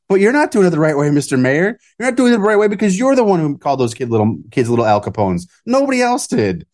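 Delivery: high, fast indignant scolding. Real, not acted. Host addressing the mayor directly, indignant. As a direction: call him out directly.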